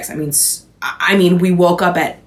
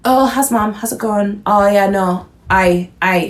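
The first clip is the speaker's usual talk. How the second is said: imitating friend's switch into Scottish; Scottish accent; 2 semitones higher than usual. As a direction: slip lightly into a Scottish accent, mimicking her. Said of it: "go straight into it and talk like this".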